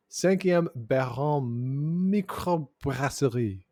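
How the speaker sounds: Québécois French pronunciation, slow; French accent. Real, not acted. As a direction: say it like a Quebec francophone. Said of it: "a very nice accent there".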